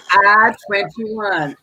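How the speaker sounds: slow, drawn-out bingo call. Acted. Bingo host calling the ball slowly. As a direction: stretch it like a bingo caller. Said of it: "B one".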